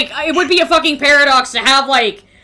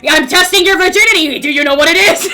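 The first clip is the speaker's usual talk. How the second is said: mock teacher; 6 dB louder than usual. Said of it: "Pop quiz".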